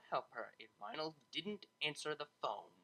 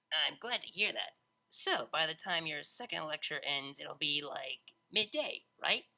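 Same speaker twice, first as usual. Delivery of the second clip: brash DJ voice. Acted. Vinyl voiced in story.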